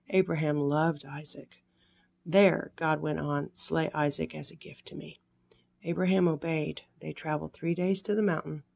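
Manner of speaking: gentle storybook reading voice; sweet old lady. A narrator's reading. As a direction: read it warmly to little ones. Reads Bible story to children.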